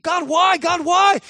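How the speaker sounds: mock plea. Imitating a believer's complaint to God, mock plea. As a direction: whine it up at heaven. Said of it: "So those areas of".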